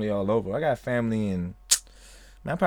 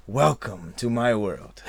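slow laughing welcome; slow playful; 4 semitones lower, slower than usual. Real, not acted. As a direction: draw it out, laughing.

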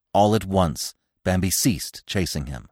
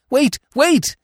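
high, louder happy calling; joyous cry; 5 dB louder than usual. A narrator's reading. Bambi chasing Feline on the meadow, crying joyously. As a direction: call out with delight. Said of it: "he cried joyously".

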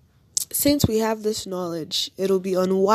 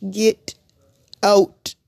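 playful get out; 6 dB louder than usual. Acted. Telling coronavirus to leave Nigeria.

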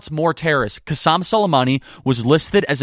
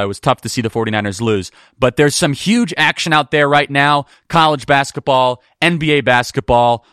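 ad read; 3 semitones lower than usual. Acted. Host pitches BetOnline to bummed football fans, upbeat ad read. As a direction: sell the games to the audience.

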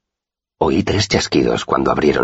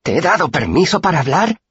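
high furious bully shout; angry shout. A narrator's reading. Pike yelling at the boy he holds by the shoulders, high and furious. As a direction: bark the question at him in rage. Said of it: "gritó".

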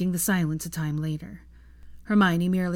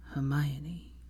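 said slowly; 3 semitones lower, 6 dB quieter than usual. Acted. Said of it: "he said slowly".

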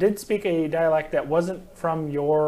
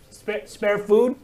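broken Halfling begging; 5 semitones higher, 4 dB louder, slower than usual. Acted. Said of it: "Which they say in Halfling. Kind of broken".

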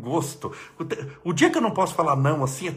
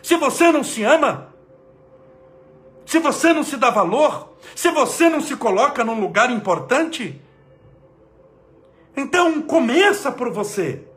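loud, high, emphatic exhortation; raised voice to shake listeners up; energetic, not angry; 9 semitones higher, 6 dB louder than usual. Real, not acted. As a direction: preach it with forceful energy. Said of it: "Falei com energia, não tô bravo".

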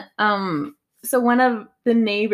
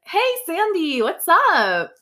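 imitating mom; 7 semitones higher, slower than usual. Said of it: "Oh, that was pretty accurate".

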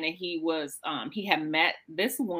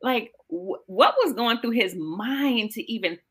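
incredulous retold thought; 2 semitones higher than usual. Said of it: "I'm sitting there thinking".

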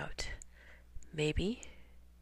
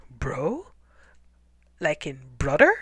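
low confused hunter mumble; mumbled; 4 semitones lower, 5 dB louder than usual. Acted. Hunter mumbling at Tacky, low confused voice. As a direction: puzzle it out under your breath, low. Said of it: "he mumbled".

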